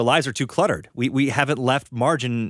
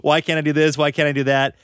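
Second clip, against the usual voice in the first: higher, lightly put-on complaining kid; mock child's whining; 4 semitones higher, 4 dB louder than usual. Interviewer imitates kids crying to mom, mock whining. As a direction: plead like a child nagging a parent. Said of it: "when they complain and they cry".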